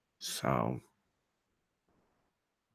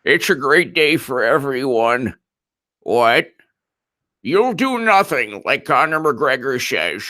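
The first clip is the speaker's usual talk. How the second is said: Chuck Grassley doing Conor; 3 semitones higher than usual. Retold or imitated. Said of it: "I can do a Chuck Grassley doing Conor".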